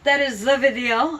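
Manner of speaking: goofy cartoon SpongeBob accent, half unaware. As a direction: lightly slip into a SpongeBob voice. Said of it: "I don't know why I'm doing that accent".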